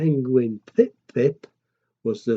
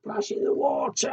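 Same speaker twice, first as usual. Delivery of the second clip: hushed splash; 5 dB quieter than usual. Acted. Hushed aftermath.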